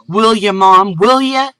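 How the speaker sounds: put-on high, loud excited child; thrilled boy bouncing with joy; joyful. A narrator's reading. Boy cheers at his mom's offer, high and excited. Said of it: "jumped up with joy".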